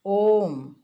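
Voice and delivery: ओम with a lengthened O; prolonged vowel. Shown as a demonstration. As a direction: draw out the O in ओम. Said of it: "ओ को तीन मात्रा तक उच्चारण".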